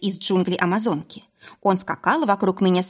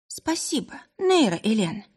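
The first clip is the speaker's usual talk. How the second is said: tired grateful thanks; 4 semitones higher than usual. Acted. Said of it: "устало улыбнулась Эйла".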